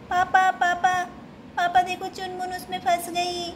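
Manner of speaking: put-on anxious girl calling papa for help. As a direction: call papa urgently. Calling father urgently.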